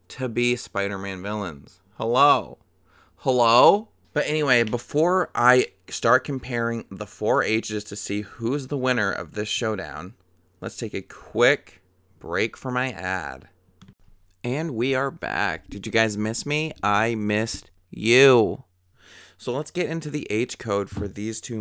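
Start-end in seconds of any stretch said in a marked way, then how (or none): 2.0-2.6 louder exasperated hello, falling; knock-knock hello to the viewer; calling out, mildly exasperated; mock calling out. Calling out to the audience. 3.2-3.9 calling again, louder and insistent; louder repeat of the exasperated call; louder mock call. 16.8-18.6 mock tender. Sweet line to viewers.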